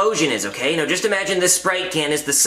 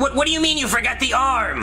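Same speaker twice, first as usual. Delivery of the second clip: higher-pitched disbelief; incredulous; 5 semitones higher than usual. Acted. Passenger learning the arm was forgotten, incredulous. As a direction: demand an explanation, voice rising in pitch.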